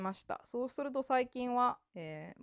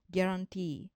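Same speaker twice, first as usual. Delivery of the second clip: ギャランティー with the closing ティー stressed; stress on final syllable. Shown as a demonstration. Teacher giving an accent example, ギャランティー stressed on final ティー. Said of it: "そこを強く読むんですね".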